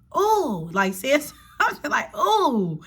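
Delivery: high, laughing mock "oh"; laughing imitation. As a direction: imitate him while laughing. Imitating date's reaction, laughing.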